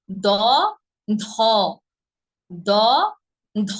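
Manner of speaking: ধ as one aspirated syllable after দ; correct letter sounds. Shown as a demonstration. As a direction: say ধ in one breathy burst. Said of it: "না, দহ না". (শুদ্ধ ধ, আলাদা হ ছাড়া)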